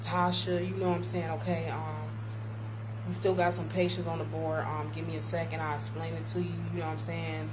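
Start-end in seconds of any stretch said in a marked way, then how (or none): 0.0-5.6 easy, considerate explanation; reasonable request. Shown as a demonstration. Supervisor asking worker to wait for patients, reasonable. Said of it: "it's how you say it". 5.6-6.5 even, considerate reassurance; reasonable request. Shown as a demonstration. Supervisor kindly putting off worker's question, reasonable. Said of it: "it's how you say it".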